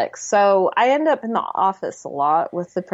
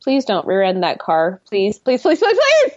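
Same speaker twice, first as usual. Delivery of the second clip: anxious mom pleading from the passenger seat; 3 dB louder than usual. Retold or imitated. Mother pleading with driving son.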